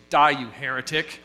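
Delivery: mock-furious shout; hammed-up outrage as he shoves him; comic angry yell; punchline shout. Gave him a big push.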